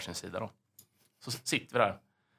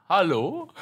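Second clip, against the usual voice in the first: raised, questioning call toward the unseen voice; calling back; 9 semitones higher, 6 dB louder than usual. Retold or imitated. Calling back to the mystery voice from the balcony. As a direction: call out to find the source.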